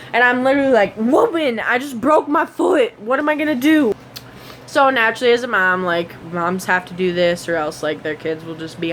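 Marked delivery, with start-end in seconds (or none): 1.0-3.9 higher-pitched, mock-desperate protest; acting out an injured kid's indignant plea; exasperated retold plea. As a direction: complain in exaggerated disbelief at your mother. Retold exasperated plea to mom on phone.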